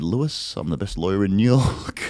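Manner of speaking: soft, drowsy Harvey voice; hushed bedtime-story Harvey; sleepy Harvey. Pretend. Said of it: "Harvey said".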